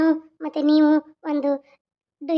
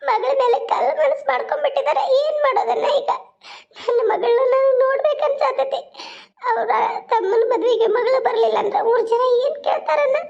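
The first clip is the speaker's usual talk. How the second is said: tearful, voice breaking, pitched up with sobs; crying; 3 semitones higher than usual. Acted. Mother weeping over her daughter's choice, tearful and breaking. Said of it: "ಅಳ್ಬೇಡ ನೀಲ".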